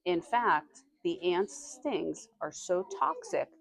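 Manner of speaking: slow, deliberate read to the class; slow reading aloud. Acted. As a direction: read each word out slowly for young listeners. Teacher reads passage to class.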